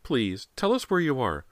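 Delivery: high, pleading mother; crying out. A narrator's reading. Mother begs missing son to answer, high pleading cry. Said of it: "Missus Fraser cried".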